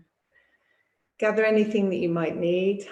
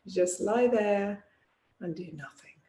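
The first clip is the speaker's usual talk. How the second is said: guided relaxation. Acted. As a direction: ease them into rest, pausing between phrases. Leads yoga nidra settling-in.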